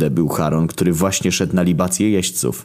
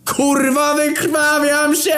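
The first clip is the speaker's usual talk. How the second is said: very high, slow shriek; screaming; much slower than usual. A narrator's reading. Chronos shrieks again for attention while bleeding. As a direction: wail it for attention. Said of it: "powiedziała atencyjna kurwa".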